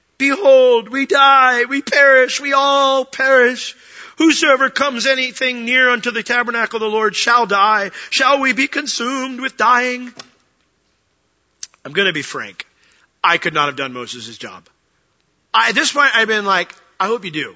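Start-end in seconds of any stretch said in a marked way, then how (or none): 0.2-10.1 put-on high, loud, whining child voice. Reading aloud the Israelites' words to Moses, in a whiny child voice. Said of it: "imagine your best child whiny voice".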